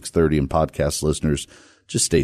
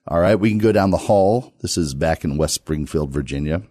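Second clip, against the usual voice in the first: normal talking voice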